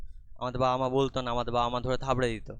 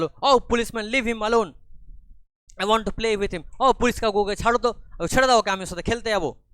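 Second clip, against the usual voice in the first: put-on pleading little girl; 9 semitones higher, 7 dB louder than usual. Child pleading with the inspector.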